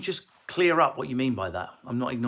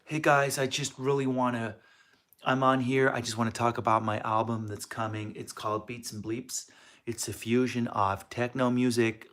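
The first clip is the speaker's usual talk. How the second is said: new character voice; 2 semitones lower, 3 dB quieter than usual. Acted. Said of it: "It's a new character".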